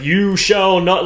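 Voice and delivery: slow, lightly declaimed orator; mock orator voice. Fan describing the singer's spoken moments, hint of orator voice. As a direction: imitate an orator, drawing out the words. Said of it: "like, orator voice".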